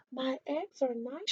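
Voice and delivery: whispered. A narrator's reading. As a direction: breathe it out barely heard. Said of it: "she whispered".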